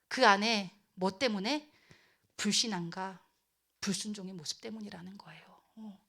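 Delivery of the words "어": ordinary delivery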